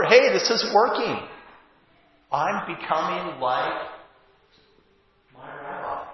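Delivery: high, loud burst of delight that fades to a hush; thrilled Peter. Acted. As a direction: Peter amazed he's really doing it.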